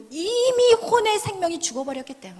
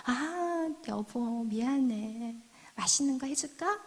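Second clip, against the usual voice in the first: soft, lower-pitched apology to a spouse; sweet placating; 3 semitones lower, 7 dB quieter, slower than usual. Acted. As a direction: coax the husband tenderly. Wife sweetly placates husband. (나긋나긋 남편을 달래듯)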